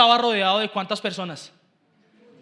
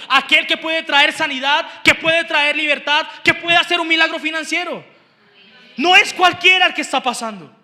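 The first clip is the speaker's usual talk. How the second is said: raised, driving preacher's delivery; forceful preaching; 4 semitones higher, 7 dB louder than usual. Real, not acted. Preacher telling the church who is passing by, forceful. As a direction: proclaim it to the congregation.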